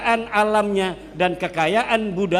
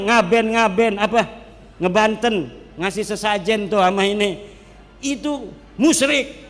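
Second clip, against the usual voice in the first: mock zealot condemning. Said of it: "orang Wahabi ... dia yang menghakimi".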